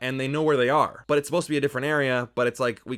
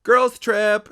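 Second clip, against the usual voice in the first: high, loud imitation whoop; mock party cheer; 10 semitones higher, 10 dB louder than usual. Reviewer imitating four girls on holiday, mock cheer. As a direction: cheer it like an overexcited group.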